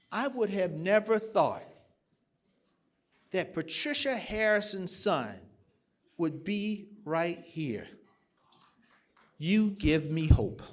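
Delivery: soft, slow, choked with emotion; tenderly, near tears; tearful and quiet. Retold or imitated. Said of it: "tears started rolling down her face".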